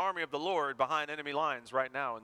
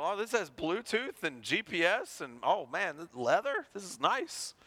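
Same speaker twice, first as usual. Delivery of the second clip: rising, thrilled voice over new gadgets; gushing, climbing up to a squeal on nice; delighted; 3 semitones higher than usual. Retold or imitated. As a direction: marvel at the leather like a kid. Delighted by new car features.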